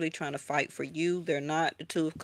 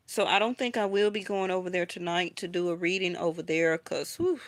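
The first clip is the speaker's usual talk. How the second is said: winded after a long stream; breathless, puffing through words; out of breath. Real, not acted. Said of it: "I'm winded now".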